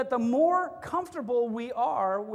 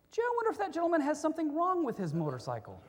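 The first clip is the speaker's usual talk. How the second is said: quick, softer, laughing; meek mock politeness; 4 semitones higher, 4 dB quieter, faster than usual. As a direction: tiptoe around the biker politely. Timid drivers behind the biker.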